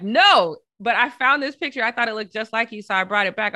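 put-on quoting the girl. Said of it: "she's like".

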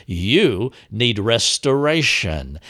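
"You need restoration" said slowly, emphasis on "restoration"; stress on restoration. Shown as a demonstration. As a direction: draw out "You need restoration" as the key part. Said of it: "set the mark on the truth".

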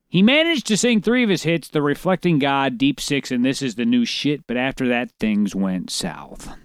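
measured report, drawing out the ending; news article read-aloud. Acted.

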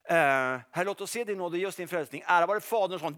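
brisk, matter-of-fact prayer; quick prayer demo. Shown as a demonstration. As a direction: rattle off the prayer. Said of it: "komma längre så här".

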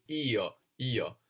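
io said i-o, two clear vowels; io as written. Shown as a demonstration. Teacher modeling io, two separate vowels. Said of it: "it can sound a little bit more like yo".

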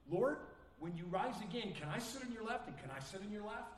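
lightly voiced disciple, pushy and keen; mock eager disciple. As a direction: play the disciple angling for a favour. Disciples' self-seeking request voiced.

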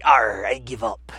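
mock pirate surrender. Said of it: "Jack was like".

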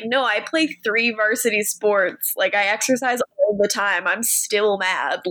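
deadpan. Retold or imitated. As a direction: flatly admit it, slowing down. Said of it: "Tyler's like".

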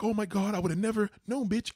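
high, loud gasping amazement; mock amazed waitress. The waitress, mock shocked at the bill. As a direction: act shocked like she never saw it coming. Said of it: "She's all like".

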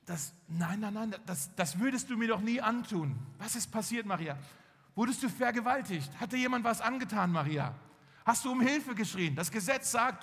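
a mildly acted upset fiancé; acted distraught disbelief. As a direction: press her with mounting alarm. Acts Josef's shocked questioning of Maria.

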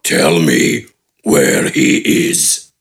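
very low, slow menacing growl; demanding giant. A narrator's reading. Giant pressing a wounded bandit, slow low demand. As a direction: lean in and demand it, deep and slow. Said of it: "Gafgarn demanded".

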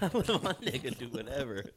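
breathy whispered echo; whispered mock repeat. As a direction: whisper it back mockingly. Mocking repeat of friend's line.

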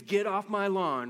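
hint of a cranky old man shouting; angry old man. Preacher imitating an angry old man, mock scream. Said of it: "an angry old man who screams".

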